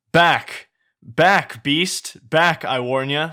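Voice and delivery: high, loud warding-off cries; warning shout. Acted. Villager wards off the ogre.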